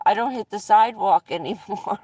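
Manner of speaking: laughing through the punchline; breaking into a laugh mid-line; giggling as she tells the snow joke. Real, not acted.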